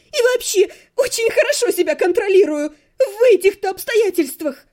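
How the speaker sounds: high, loud and indignant; girl yells back at the necromancer; furious shout. A narrator's reading. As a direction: throw the endearment back at him. Hysterical insistence.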